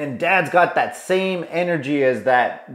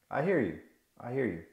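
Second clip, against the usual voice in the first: empathetic; 11 dB quieter, faster than usual. Acted. Soothing the frustrated dad.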